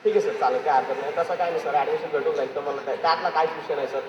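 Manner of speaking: low, soft, smooth reassurance; lightly voiced teacher smoothing things over; a hint of the teacher calming a parent; imitating a fawning teacher. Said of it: "Shinde sir ताकाल कसं म्हणते".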